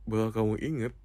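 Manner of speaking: usual speaking voice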